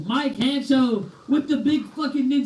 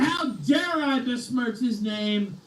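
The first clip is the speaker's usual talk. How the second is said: slow mock outrage; slower than usual. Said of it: "repeats chat line mocking".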